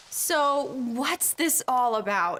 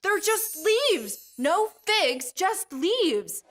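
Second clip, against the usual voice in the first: higher, slow, mock-annoyed complaint; ticked-off Jesus; 5 semitones higher, much slower than usual. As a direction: drag out the let-down with a grumble. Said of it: "And Jesus says".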